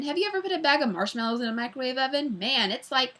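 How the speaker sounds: barrel through the story like a train; freight-train chatter. Acted. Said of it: "Mac's voice was like a freight train".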